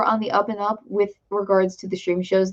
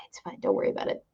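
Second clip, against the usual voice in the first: whisper, soothing yourself; calm yourself in a whisper; whispered reassurance; 11 dB quieter, much faster than usual. Real, not acted. Reassuring self after near tears.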